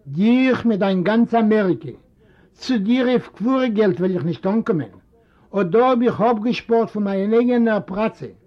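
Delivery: lightly voiced proud old man; proud old father. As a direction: throw his pride at the son. Old father rejects son's money.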